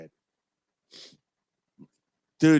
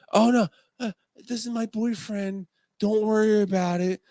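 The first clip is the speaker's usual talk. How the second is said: higher, light flustered voice; a hurried soothing cover-up; a nervous girl brushing it off; 8 semitones higher than usual. Retold or imitated. Coworker covers for her boyfriend.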